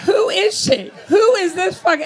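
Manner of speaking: loud, high-pitched incredulous outburst; alarmed disbelief. Acted. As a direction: demand it in loud, mock horror. Acted alarm at own voice.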